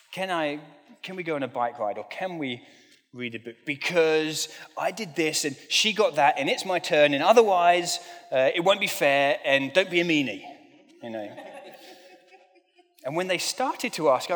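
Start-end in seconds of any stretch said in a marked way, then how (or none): 0.1-10.4 lightly voiced pleading kid, louder toward the end; mock a child making her case; a hint of a daughter whining that it's not fair. Imitating her daughters asking for things.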